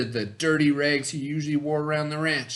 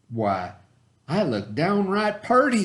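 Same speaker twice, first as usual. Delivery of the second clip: higher, pleased cowboy voice; Bubba admiring himself; 6 semitones higher than usual. Acted. Bubba admiring his new duds, higher and pleased. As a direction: preen at your new clothes. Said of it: "said Bubba".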